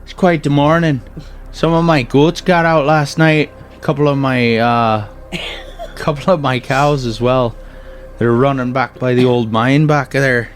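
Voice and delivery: folksy farmer. Acted. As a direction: ham up a chatty country farmer. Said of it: "And the other man says".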